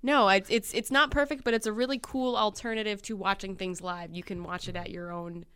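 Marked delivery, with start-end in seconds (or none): 0.0-4.1 loud, sharp schoolteacher voice; firm teacher talking over the class. Acted. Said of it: "I'm gonna put on my teacher voice".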